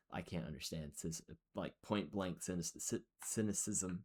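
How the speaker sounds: tripping over words with a retainer in; slurred speech around a dental retainer; wearing a retainer. Real, not acted. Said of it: "I have my retainers in".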